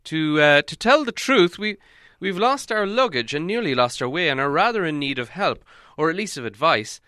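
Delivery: high, apologetic stammering; hesitant wizard. A narrator's reading. Wizard asking huge man for help, high and halting.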